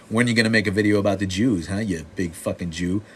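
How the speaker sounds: loud, mocking troll impression; imitated jeering heckler. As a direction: imitate a pushy troll demanding an answer. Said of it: "some asshole was like".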